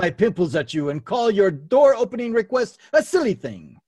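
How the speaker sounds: hammed-up taunting quote; taunting French knight. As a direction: hurl it as a silly film taunt. Acting out the film's French taunts.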